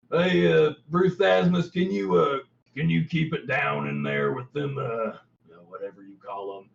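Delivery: calls out casually, trailing off; human guard calling. Acted. Human NPC calling to bugbear.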